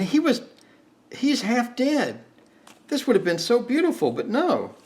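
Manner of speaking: high, whining lament over a lost shot; upset whine. Real, not acted. Player mourning his half-dead sniper, high whine. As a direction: moan that it would have been beautiful. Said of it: "See, now I'm upset".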